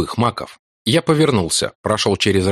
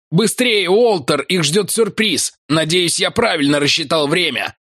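urgent shout; 8 semitones higher than usual. Acted. Ventner urging Walter on during the chase. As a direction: drive them on as they run.

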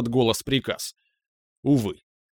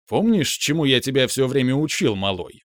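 sad. Acted. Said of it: "грустно произнесло облако".

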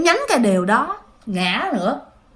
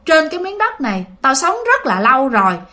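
demon's reply; 2 semitones higher than usual. Retold or imitated. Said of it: "cái con quỷ đó nó còn trả lời".

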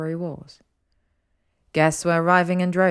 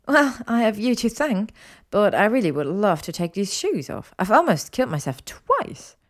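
slightly higher woman's voice, lively; lightly voiced Hermione, grateful; 4 semitones higher than usual. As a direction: lightly play a friend thanking, then lightly complaining.

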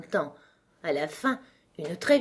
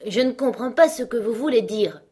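puzzled Alice; 5 semitones higher, 5 dB louder than usual. Acted. Irritated Alice answers the frog.

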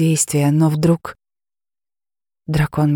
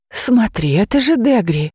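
higher, joyful surprise; aunt spotting the lost girl, excited and higher; excited exclamation; 6 semitones higher than usual. Acted. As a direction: she can't believe her eyes. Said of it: "воскликнула она".

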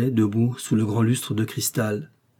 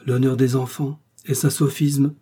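soft and even; 3 semitones higher than usual. Acted. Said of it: "de la même voix douce et sans modulation".

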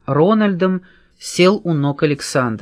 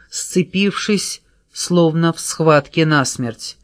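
ordinary delivery, nothing marked

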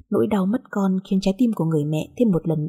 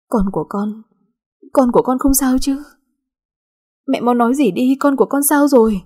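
rising into a high, louder panicked plea; from worried to frantic; anxious pleading; 5 semitones higher, 4 dB louder than usual. A narrator's reading. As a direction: beg for news of the baby, fear growing. Mother fearing for her baby.

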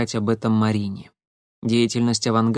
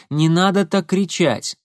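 slow plea; 6 semitones higher, 3 dB louder than usual. Acted. Marina stopping Igor.

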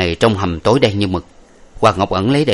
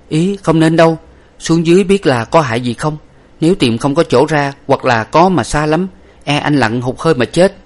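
high, louder anxious pleading; Bạch Tuyết begging the hero not to dive, much higher; worried heroine; 7 semitones higher, 3 dB louder than usual. Acted. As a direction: stop him out of fear for him. Heroine begs him not to.

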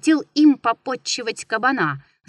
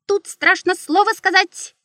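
much higher, louder squeak; shrill mocking beak echo; 10 semitones higher, 4 dB louder than usual. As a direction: squeak it out like a bird. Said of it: "пискнул птичий нос".

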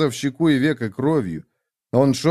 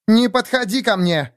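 higher-pitched, restrained cry; shouted warning; 10 semitones higher than usual. A narrator's reading. Woman raises gun at Lev, crying out. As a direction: warn him off with a sharp rise in pitch. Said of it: "крикнула она и подняла оружие".

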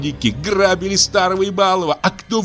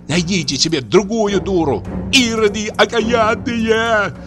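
high, tearful angry tirade; furious crying rant; 10 semitones higher than usual. Acted. Aksinya shouting at the old man through tears, furious. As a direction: scream her grievance at the family. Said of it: "кричала она изо всей силы".

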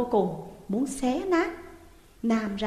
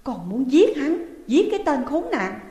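grind out the hatred; through gritted teeth; 4 semitones higher, 5 dB louder than usual. Acted. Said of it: "Dung nghiến chặt răng".

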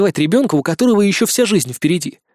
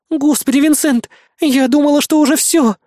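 put-on high, louder relieved girl voice; relieved girlfriend; 9 semitones higher, 3 dB louder than usual. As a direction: gush it out high and emotional.

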